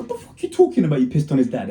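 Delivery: acted-out baffled reaction; incredulous retort. Acted reply to shocking news.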